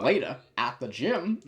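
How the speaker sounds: lightly imitated goofy announcer read; playful take on a cartoon title card; funny title-card voice. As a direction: mimic a silly scene transition, pitch swinging. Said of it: "read it in such a funny voice".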